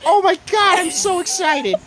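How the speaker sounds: high, loud gushing squeal; hammed-up giddy outburst; mock excitement. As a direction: imitate a thrilled mom. Imitates mom in viral video.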